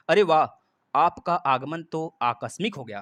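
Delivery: slow, loud "अरे वाह" opening a pleased exclamation; happy surprise. Shown as a demonstration. Teacher reading an example sentence, slow and pleasantly surprised. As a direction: stretch it out as if a guest just arrived unexpectedly. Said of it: "आकस्मिक ही हमें बता दे रहा है".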